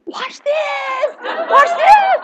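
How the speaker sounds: high laughing tease; giggle, showing off; playfully voiced Lord, laughing; playful watch this. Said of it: "the Lord is going like this".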